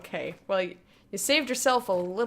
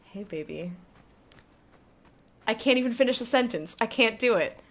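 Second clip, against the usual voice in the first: mock seductive start; 5 dB louder than usual. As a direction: start seductive, then give up. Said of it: "go to your hot wife and be like".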